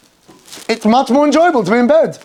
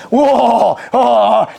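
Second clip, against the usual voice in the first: drawn-out mock "whoa"; mock-indignant "whoa"; emotional outburst; 2 semitones higher than usual. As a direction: react like a driver cut off in traffic. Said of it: "now he becomes emo".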